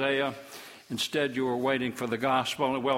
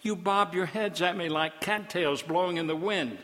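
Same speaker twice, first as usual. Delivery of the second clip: higher, exasperated scolding as God; a touch of exasperated preaching; 4 semitones higher than usual. Acted. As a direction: let God's patience run out.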